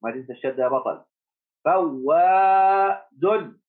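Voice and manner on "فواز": فواز held long and higher; drawn-out dictation. Shown as a demonstration. Teacher dictating فواز to the class, stretched out. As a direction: call out فواز slowly for dictation. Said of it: "dictation again".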